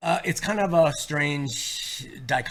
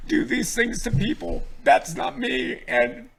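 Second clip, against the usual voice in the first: crying through the words, voice raised; choked up and tearful; blubbering; 4 semitones higher, 3 dB louder than usual. Real, not acted. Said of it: "I'm so emotional".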